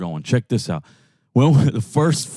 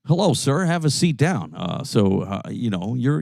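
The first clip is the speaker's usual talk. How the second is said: lightly voiced nervous applicant, trailing softer; a hint of a mumbling candidate at an interview; job interviewee; 3 dB quieter than usual. Mocking a speaker who can't change voice, mild interviewee. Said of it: "you go to a fucking job interview and you're like".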